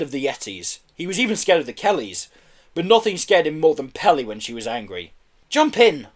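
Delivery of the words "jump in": raised, urgent order. A narrator's reading. Missus Kelly getting everyone into the van, ordering. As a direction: hurry them aboard. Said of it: "ordered Missus Kelly".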